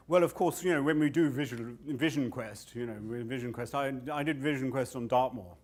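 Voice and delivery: mock-pompous boasting; boastful self. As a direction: show off the vision quest like a braggart. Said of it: "and I'm going".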